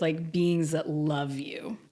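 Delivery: whispered, barely voiced; hushed whisper. Retelling the spirit's welcome to a friend, whispered. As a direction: breathe the words softly like a secret gift.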